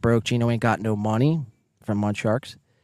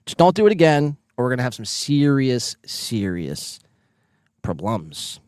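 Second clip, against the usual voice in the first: mock threat. Teasing the chat room, mock-stern warning. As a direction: threaten playfully, spacing out the last words.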